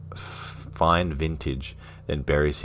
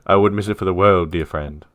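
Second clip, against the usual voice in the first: a hint of a posh gentleman, a bit louder; lightly voiced refined friend; 2 semitones higher, 6 dB louder than usual. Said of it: "he's got a very posh voice".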